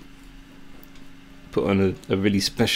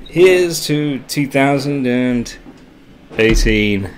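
excited toast; 3 semitones higher, much slower than usual. Real, not acted. Toast after midnight.

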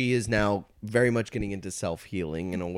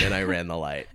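whisper; 6 semitones lower than usual. Real, not acted. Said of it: "I was not having fun".

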